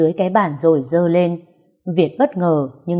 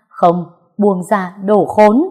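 furious curse; 2 semitones higher, 5 dB louder, slower than usual. Acted. Heroine cursing him while struggling.

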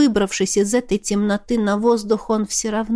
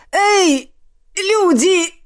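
much higher, louder call for help; barking shout; 10 semitones higher, 4 dB louder, much slower than usual. Acted. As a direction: bellow out to anyone above. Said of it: "гаркнула". (громкий окрик)

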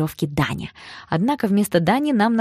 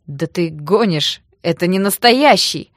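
scoffing disbelief; 5 dB louder, slower than usual. Acted. Thug disbelieves the gun.

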